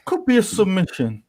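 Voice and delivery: tentative, high-pitched hedge; unconvinced. Real, not acted. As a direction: offer it without much conviction. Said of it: "You don't sound so convinced there".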